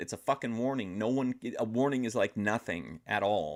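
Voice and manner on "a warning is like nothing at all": normal talking voice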